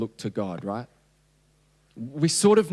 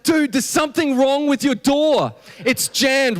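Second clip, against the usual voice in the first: higher, mock-annoyed young adult voice; young adults' complaint; 10 semitones higher than usual. Pastor mimicking young adults stuck behind child lock, higher. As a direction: imitate the kids griping about the door. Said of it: "And they're like".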